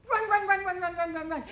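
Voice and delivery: loud, urgent chant of run; storyteller acting the sister's dash, loud and urgent; running. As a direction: push it like a racing child. Sister racing home.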